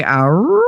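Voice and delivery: little howl that rises like a question. Shown as a demonstration. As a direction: howl it as if asking. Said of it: "like, questioning or sexy or what".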